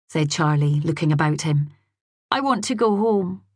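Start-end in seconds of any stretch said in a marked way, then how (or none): 2.3-3.4 put-on sulky child. A narrator's reading. Small boy refusing hospital visit.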